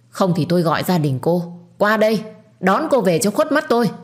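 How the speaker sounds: a strict matriarch putting her daughter-in-law in her place; stern scolding. Acted. (mắng nghiêm khắc, giọng cao dần)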